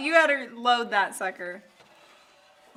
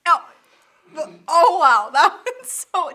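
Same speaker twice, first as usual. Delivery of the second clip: after eating hot sauce; 5 semitones higher, 10 dB louder than usual. Real, not acted. Just tasted the hottest sauce.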